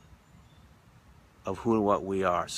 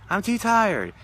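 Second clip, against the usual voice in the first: much higher mock weary whine; tired refusal; 12 semitones higher, 5 dB louder, slower than usual. Gentleman refusing his partner, high mock whine. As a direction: groan it out, refusing. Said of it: "And he's like".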